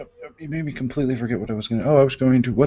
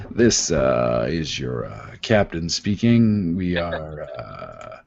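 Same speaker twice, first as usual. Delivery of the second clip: lightly voiced pilot announcement; mock captain over the intercom; airline captain voice; 3 semitones lower, slower than usual.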